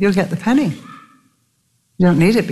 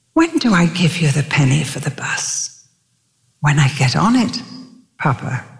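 put-on whispered child's question. Little girl asks father.

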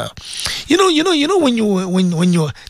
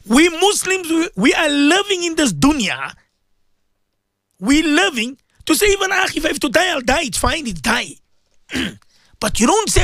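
raised, fervent sermon voice; impassioned preaching; 6 semitones higher than usual. Acted. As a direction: preach it out to the radio listeners. Radio preacher exhorting listeners.

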